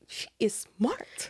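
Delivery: slow, hushed admiration; awed whisper. Retold or imitated. Friend reacting to the clever undercover trick, awed whisper. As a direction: whisper it, dragging out the words.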